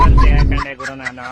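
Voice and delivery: high, loud exasperated cry; frustrated yell. Acted. Officer losing patience with the villagers, high loud yell. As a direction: throw up your hands and yell.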